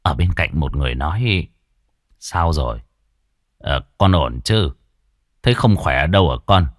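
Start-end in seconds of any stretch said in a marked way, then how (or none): 2.2-6.7 lower, gentle concerned questions; a caring old man checking on a child; kindly old doctor. A narrator's reading. Old doctor kindly asks the soaked boy.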